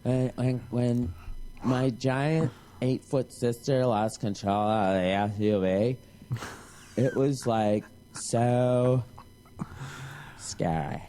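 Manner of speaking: low, slow, breathy melodrama; mock dramatic storyteller. Mocking the sister on the show, low slow dramatic. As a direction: ham up a scary confession.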